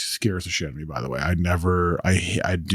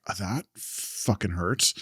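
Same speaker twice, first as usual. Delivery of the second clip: pained mutter; 6 dB quieter, slower than usual. Retold or imitated. Retold pain at the injury.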